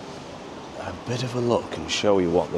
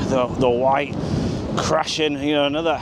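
raised, higher voice against the gale; shouting over wind; 7 semitones higher than usual. Real, not acted. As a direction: call out over strong wind. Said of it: "it's really hard to talk 'cause the wind is so strong".

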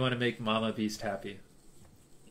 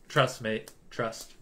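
British accent impression; 3 semitones lower, 5 dB quieter, much slower than usual. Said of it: "what my British friends sound like".

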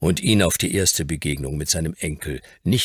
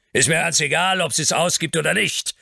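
thundering; 12 semitones higher than usual. A narrator's reading. Earl thundering at his lawyer about the money. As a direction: thunder it at him. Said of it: "donnerte Mylord".

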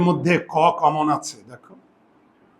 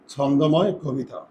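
ছন্দময় কবিতা said slowly, syllable by syllable; slow, careful teacher's model reading; slow demo; 3 dB quieter, slower than usual. Shown as a demonstration. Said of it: "আর এই পদ্ম হচ্ছে".

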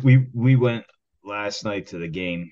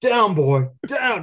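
commanding; 10 semitones higher, 5 dB louder, much slower than usual. Real, not acted. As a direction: order him down like a dog. Telling him to calm down.

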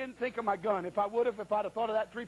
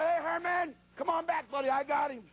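higher, casual call to a hunting buddy; acting cool; 6 semitones higher than usual. Preacher calls his friend over, faking calm. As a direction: play it cool, as if this happens every day. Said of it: "Try to act cool".

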